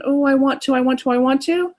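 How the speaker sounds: put-on eager little kid. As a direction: whine it like a kid who wants something. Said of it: "that little kid going".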